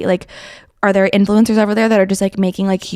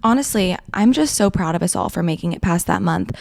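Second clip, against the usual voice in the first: out of breath; 4 dB quieter than usual. Real, not acted. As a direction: talk while catching your breath. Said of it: "I am out of breath".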